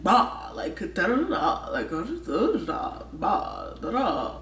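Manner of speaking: sing-song "da da da" mimicking Busan tune; rough imitation of Korean dialect intonation; poor Busan intonation imitation. Shown as a demonstration. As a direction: hum the rise and fall of Busan speech. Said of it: "I'm doing poorly intonations of it".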